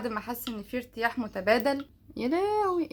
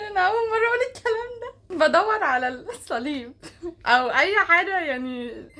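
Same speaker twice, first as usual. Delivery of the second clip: laughing; 5 semitones higher than usual. Real, not acted. Embarrassed confession, laughing.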